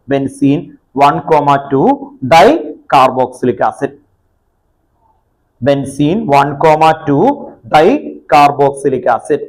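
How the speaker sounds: slow, measured dictation. Real, not acted. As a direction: dictate it in slow chunks with pauses. Teacher dictates name for writing. (പറഞ്ഞെഴുതിക്കുന്ന പോലെ പതുക്കെ)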